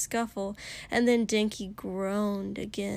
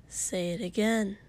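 bored. Acted. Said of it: "He almost sounded bored".

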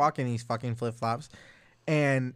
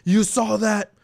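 put-on higher, louder drunk protest, laughing through it; drunk friend; 7 semitones higher, 7 dB louder, slower than usual. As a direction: play the indignant drunk blaming the bouncer. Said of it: "he goes".

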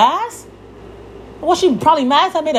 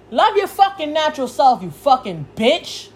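yelling. Real, not acted. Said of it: "Yeah, I'm fucking yelling".

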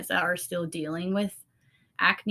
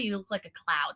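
whispering; 3 dB quieter than usual. Real, not acted. Soft aside about looking like a cloud.

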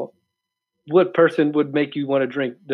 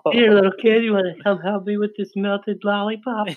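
put-on sly, coaxing creep luring a kid; hammed-up creepy lure; creepy stranger voice; 4 semitones higher than usual. Teasing friend, acting out a creep.

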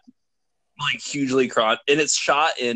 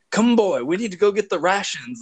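imitating Defoe; 8 semitones higher than usual. Retelling the film, playing Defoe calling the boy to dig. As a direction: bark the order like a gruff lighthouse keeper. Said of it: "He's like".

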